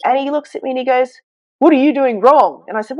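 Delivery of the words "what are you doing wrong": retold blunt accusation, higher and louder; accusing doctor. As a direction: fire it at her like a doctor blaming a parent.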